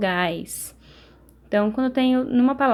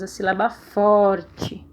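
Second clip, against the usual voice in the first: slow emphasis; 3 semitones lower, much slower than usual. Shown as a demonstration. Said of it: "qual é a sílaba tônica".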